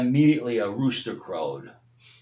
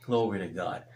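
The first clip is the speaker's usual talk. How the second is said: tender preaching; 2 semitones lower than usual. Acted. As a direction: gently draw them to grace.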